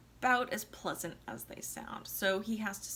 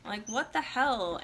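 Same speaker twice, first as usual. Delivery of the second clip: bitching; 3 semitones higher than usual. Retold or imitated. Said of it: "she starts, like, bitching".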